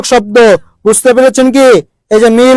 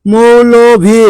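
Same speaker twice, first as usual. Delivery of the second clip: drawn out word; much slower than usual. Shown as a demonstration. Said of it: "মোল্লা, মৌলভী".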